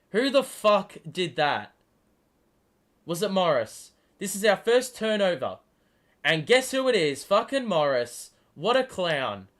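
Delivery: loud, cursing fan rant at the turnover; angry rant. Real, not acted. Fan curses the player for the first turnover, loud angry rant. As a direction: vent at the player who gave the ball away.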